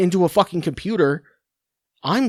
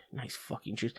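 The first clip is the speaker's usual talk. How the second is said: muttered sarcasm; 5 semitones lower, 18 dB quieter than usual. Real, not acted. Sarcastic aside after insults.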